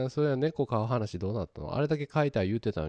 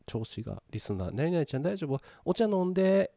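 cute moe voice; 3 semitones higher than usual. Retold or imitated. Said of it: "萌え声".

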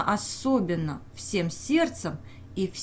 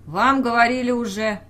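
risky retort; 3 semitones higher, 5 dB louder than usual. Acted. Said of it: "рисковато ответил Башлыков".

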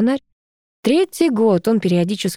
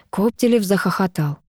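ordinary delivery, nothing marked

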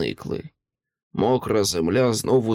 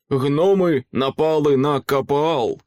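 higher-pitched, mildly alarmed exclamation; alarmed announcement; 4 semitones higher, 3 dB louder than usual. A narrator's reading. Companion tells the group of an attack, urgently.

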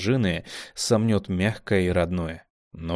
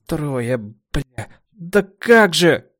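slow, much louder wail; anguished; 7 semitones higher, 6 dB louder, much slower than usual. A narrator's reading. Kamila mourning her dead, anguished wail. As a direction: cry out in grief. Grief over losses.

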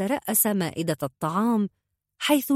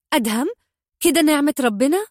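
higher, louder scolding; a mother snapping at her son; scolding shout; 8 semitones higher, 5 dB louder, faster than usual. A narrator's reading. Mother scolding her son for the plate, louder. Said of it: "لتصيح به والدته وهي توبخه".

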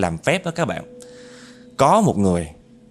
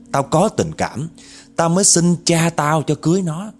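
aggrieved ghost woman's tale; 5 semitones higher than usual. Retold or imitated. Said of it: "vừa nói vừa gằn giọng mà vừa chửi mà vừa ấm ức".

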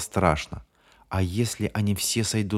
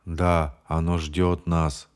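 lightly lower, slow, hollow drawl; 3 semitones lower, much slower than usual. Acted. James drones that it waits for them, hollow and slow. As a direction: drag the words out as if in a trance. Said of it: "глухим голосом затянул Джеймс".

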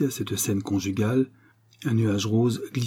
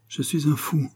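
horribly altered voice; 5 semitones higher than usual. A narrator's reading. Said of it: "d'une voix affreusement altérée".

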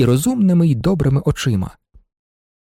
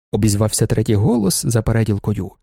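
usual speaking voice

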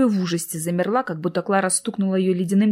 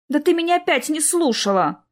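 reproachful sister; 7 semitones higher than usual. Acted. Sister reproaches distracted Klara.

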